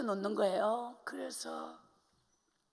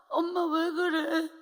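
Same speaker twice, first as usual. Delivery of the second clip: put-on slow, anxious child's question; worried child; 3 semitones higher, slower than usual. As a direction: ask like a frightened little girl. Child worried about dying mother. (겁먹은 아이처럼)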